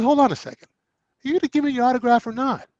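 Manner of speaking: testy demand. Retold or imitated. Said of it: "getting a little testy".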